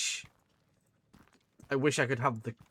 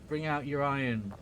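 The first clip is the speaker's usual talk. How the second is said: plague-cart caller; 2 semitones higher than usual. Retold or imitated. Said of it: "I think of Monty Python".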